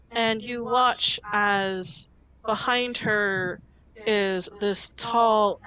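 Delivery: ordinary delivery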